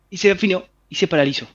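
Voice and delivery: normal talking voice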